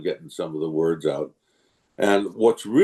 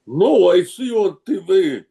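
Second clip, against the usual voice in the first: excited, higher-pitched fan insisting; insistent Russian-speaking fan; 7 semitones higher, 3 dB louder than usual. Retold or imitated. Convention fan insisting to the actor, mock insistent. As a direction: imitate a fan who won't be contradicted, voice lifted. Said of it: "And he goes".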